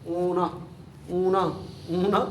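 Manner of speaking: اونا repeated, crisp and clear; sound demo. Shown as a demonstration. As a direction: drill the ending اونا. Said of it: "اونا کی آواز ہے". (اونا کی آواز کی مشق)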